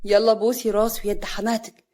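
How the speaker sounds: cool, matter-of-fact command; cold. Acted. Father ordering Hana to apologize, coldly. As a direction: order it without feeling. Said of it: "صالح بكل برود".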